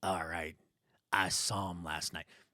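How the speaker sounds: very low, very soft bartender voice. Showing how to get back into a game character, a bartender character voice. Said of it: "that amazing bartender character voice".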